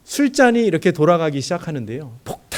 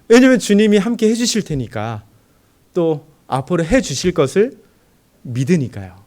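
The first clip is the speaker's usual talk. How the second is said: louder, higher declaration of trust; fervent, raised declaration of faith; fervent preaching; 3 semitones higher, 6 dB louder than usual. Acted. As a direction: proclaim it with fervor. Sermon climax on faith.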